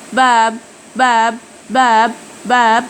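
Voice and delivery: باب said slowly, final b closed and unreleased; slow باب with a clipped stop at the end. Shown as a demonstration. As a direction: Korean batchim p in باب. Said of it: "زي باب".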